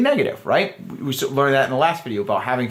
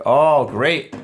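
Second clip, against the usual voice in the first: drawn-out, teasing fake interest; lightly sarcastic enthusiasm; playful mock enthusiasm; slower than usual. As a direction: feign delight, teasing her. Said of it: "we have to kind of flip that around".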